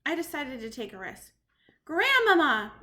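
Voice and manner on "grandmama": loud call through the door; shouted. Acted. The boy calls through the door to his grandmother. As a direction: call out as loud as you dare. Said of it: "I shouted as loudly as possible".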